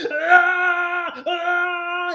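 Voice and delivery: two high yelping imitated screams; mock screams. The stabbed man imitated, with high mock screams. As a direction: yelp like the man being stabbed. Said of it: "the guy who she's stabbing is like".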